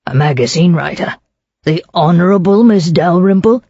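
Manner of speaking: doubting "magazine writer?" with a disbelieving lift on Miss; skeptical. Acted. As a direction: question her claim as if it can't be true. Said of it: "asked the policeman skeptically".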